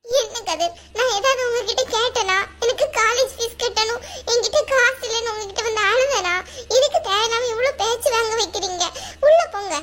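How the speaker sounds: hurt, tearful protest; tearful reproach. Acted. Crying student blames her friend for the insults, tearful. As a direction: reproach him while upset, firmer at the end. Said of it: "ஏன் இப்படி அழுவுறீங்க?".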